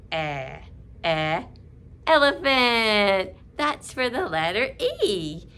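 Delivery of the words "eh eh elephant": "eh" with the chin pulled down, open jaw. Shown as a demonstration. Teacher showing children to drop the chin for "eh". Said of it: "Pull your chin down and say".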